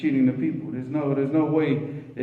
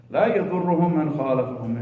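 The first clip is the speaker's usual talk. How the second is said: hadith recitation; much faster than usual. Acted. Recites hadith phrase in Arabic.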